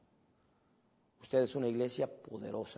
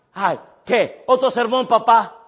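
high, loud eye-rolling whine; annoyed teenager; 9 semitones higher, 16 dB louder, slower than usual. Retold or imitated. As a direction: whine it like a fed-up teen. Son mocking father's sermons.

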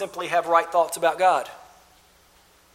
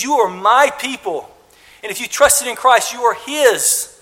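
emphatic declaration; 4 semitones higher, 6 dB louder than usual. Acted. Preacher declares God's claim to the congregation, louder. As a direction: proclaim it with conviction.

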